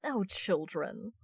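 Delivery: ordinary delivery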